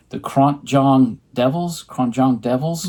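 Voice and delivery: tentative, sounded-out "Kronjong"; phonetic pronunciation. Real, not acted. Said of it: "I'll just do it phonetically".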